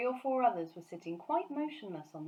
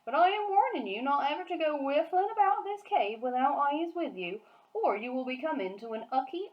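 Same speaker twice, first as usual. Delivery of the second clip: higher, louder warning giant; BFG's voice; 5 semitones higher, 4 dB louder than usual. Acted. Giant warning Sophie about the cave, giant voice. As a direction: warn her like the friendly giant.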